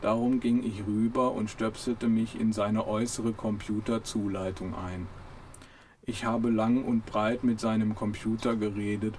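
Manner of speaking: very slow, mildly weary; a hint of a bored, gloomy robot; slow understated robot boredom. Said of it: "sagte Marvin".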